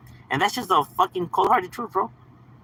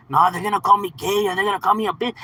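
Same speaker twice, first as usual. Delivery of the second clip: lightly mocking a fretful kid, higher pitch; mock worried kid; 5 semitones higher than usual. Streamer mimicking a kid scared of name-calling, mock worried. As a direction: put on a childish worry, half-hearted. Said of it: "elementary kid worries about".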